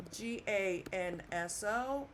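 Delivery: crisp teacher's model of ganso with a hard g; Spanish pronunciation. Shown as a demonstration. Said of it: "let's see what that sounds like".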